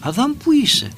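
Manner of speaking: «Αδάμ, πού είσαι; gentle calling. Shown as a demonstration. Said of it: "Ο Θεός είπε".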